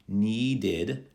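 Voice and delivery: NEEDED very slowly, need-id; id ending. Shown as a demonstration. Teacher modelling for students to repeat, slow id ending. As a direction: draw out NEEDED in two clear syllables. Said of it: "have the id sound at the end".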